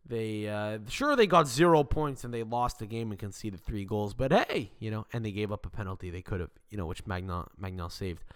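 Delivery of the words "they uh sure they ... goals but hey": sarcastic fan voice. Retold or imitated. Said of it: "these weird silver linings, like".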